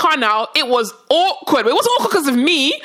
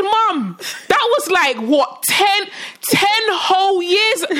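mildly exasperated, higher-pitched disbelief; incredulous; 6 semitones higher, much slower than usual. Retold or imitated. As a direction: drag out the years in disbelief. Incredulous reply to mum about old incident.

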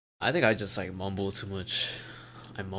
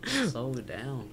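drawn-out "Slow it down"; 3 semitones higher, slower than usual. Pretend. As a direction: stretch the words to show the slower pace. Mock plea to fast talkers.

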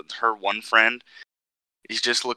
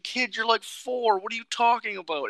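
much higher disbelieving voice; incredulous; 13 semitones higher than usual. Retold or imitated. Speaker retelling his reply to the kid, high incredulous voice. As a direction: talk to him like he's absurd. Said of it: "And I was like".

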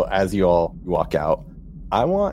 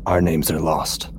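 slow hollow ghost voice. Acted. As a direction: speak slowly like a lost spirit. Ghost speaks slowly.

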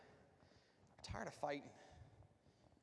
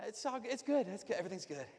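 forced cheer. Retold or imitated. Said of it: "And you're like".

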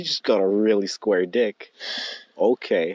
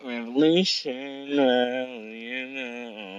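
lazy Liverpool drawl, slow; doing a singer, drawn out; a singer impression; 3 semitones higher, much slower than usual. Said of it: "a singer's very good but irritable voice".

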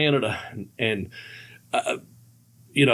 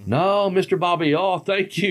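lightly imitated polite driver, higher pitch; higher-voiced mock polite refusal; Sheldon the limo driver; 4 semitones higher than usual. Limo driver turning down Bobby's treat, lightly imitated. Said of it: "he'd always ask the limo driver, Sheldon".

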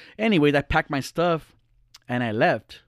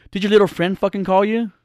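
higher, louder accusing fiancee voice; attitude; 6 semitones higher, 4 dB louder than usual. Retold or imitated. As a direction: throw the question with attitude. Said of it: "she had the audacity to have a fucking attitude".

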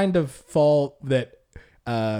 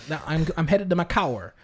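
imitated Southern girl, car as "cower"; Southern accent. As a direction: mimic a lightly Southern churchgoer. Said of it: "a girl who used to say".

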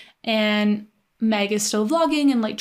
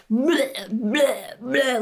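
repeated retching blehs; imitated retching; 2 semitones higher, much slower than usual. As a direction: mimic heaving over and over. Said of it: "a minute of just".

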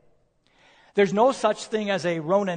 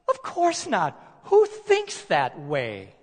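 incredulous rebuttal; slower than usual. Acted. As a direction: scoff at the very thought. Preacher repeating the emphatic rebuttal.

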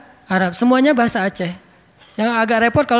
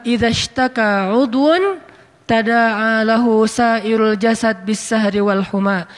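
slow, deliberate Arabic quotation; measured reading of a Prophet's saying; hadith quote; slower than usual. Acted. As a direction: recite the hadith slowly and carefully.

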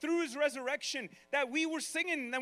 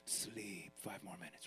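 much lower and much softer, drowsy; your tired body pleading for more sleep, low and soft; sleepy body voice; 12 dB quieter than usual. Retold or imitated. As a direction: coax yourself back to sleep. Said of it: "your own body saying".

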